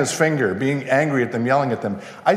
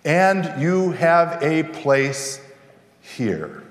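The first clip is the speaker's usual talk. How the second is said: reassuring; slower than usual. Real, not acted. Pastor reassuring listeners of honor.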